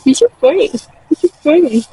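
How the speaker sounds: high-pitched cooing at an animal; affectionate, lilting high voice; fond pet talk. Real, not acted. Cooing to her pet sheep.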